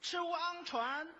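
"吃乌昂船" drawn out slowly and high, sound by sound; botched spelling-out. Shown as a demonstration. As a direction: spell out 船 slowly as chi-wu-ang, then chuan. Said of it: "我听着你说跳床". (慢慢高声拼读“吃乌昂——船”)

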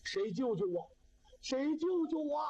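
plea rising to a high, slow call; repeated cry for help. A narrator's reading. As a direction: call out for rescue, stretching the second plea. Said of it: "这里边还喊".

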